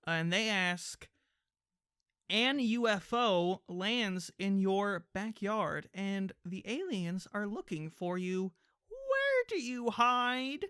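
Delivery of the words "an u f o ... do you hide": slow, measured read-aloud; dramatic reading. Acted. Reading an alien question to the co-host, slow dramatic delivery. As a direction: draw it out, lifting the final question.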